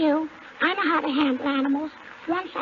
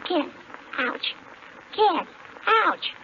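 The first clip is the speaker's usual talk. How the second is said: smacking kiss then a yelp; animal impersonation. Pretend. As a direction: kiss sound then a quick ouch. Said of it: "can I do my animal impersonation".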